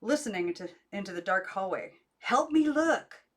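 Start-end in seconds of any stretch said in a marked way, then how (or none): 2.2-3.2 higher, slow pleading voice; a fretful aunt asking for help, slow and high; high slow plea; urgent aunt. A narrator's reading. Aunt searching hallway at night.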